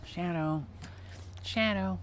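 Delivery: calling the dog. Real, not acted.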